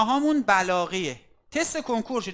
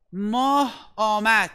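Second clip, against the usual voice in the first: 1 slow example; much slower than usual. Shown as a demonstration. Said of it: "مثلاً من یک مثال بزنم".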